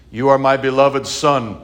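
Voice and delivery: a lightly deepened voice of God from the heavens; weak God voice. Acted. Preacher reading the heavenly voice to the congregation, a weak God voice. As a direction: announce it as the voice of God, but small. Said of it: "It's a pretty weak God voice".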